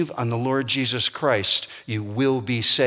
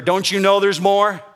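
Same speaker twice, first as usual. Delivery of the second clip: raised, coaxing serpent voice; Satan tempting Eve; 8 semitones higher, 4 dB louder than usual. Retold or imitated. Satan tempting Eve, coaxing and raised. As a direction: hook her with a sly higher whisper-free tease. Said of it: "when he said to her".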